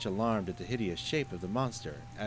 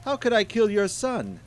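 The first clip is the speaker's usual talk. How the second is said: panicked denial; 13 semitones higher, 10 dB louder than usual. Acted. Merchant denies in panic.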